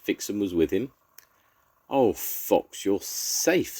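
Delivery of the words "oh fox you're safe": a touch of tearful higher voice; mild sob for little Mole; lightly voiced tearful mole; sobbing. A narrator's reading. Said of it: "sobbed Mole".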